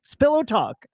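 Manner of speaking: tossing it out through laughter; laughing. Real, not acted. Laughing after a teasing joke.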